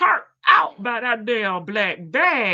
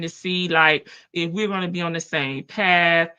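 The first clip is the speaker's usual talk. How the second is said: lower-voiced imitation of a boyfriend; Nesto imitation; 5 semitones lower than usual. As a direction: drop the voice to mock him. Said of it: "Nesto like".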